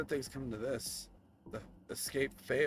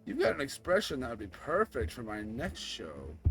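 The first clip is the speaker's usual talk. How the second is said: a louder, smug villain relishing his win; lightly voiced gloating villain; 3 semitones lower, 5 dB louder than usual. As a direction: gloat over the captive, a touch menacing.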